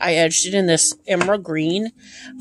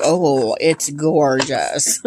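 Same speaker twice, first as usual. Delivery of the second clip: slow, lower, drawn-out wonder; awed delight; 4 semitones lower, much slower than usual. Retold or imitated. Opening the deck from the mail, slow, lower awed wonder. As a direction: savour every word like seeing it for the first time. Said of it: "and I'm like".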